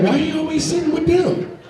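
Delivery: put-on high kid voice asking; curious classmate. Classmates asking why he sits with them.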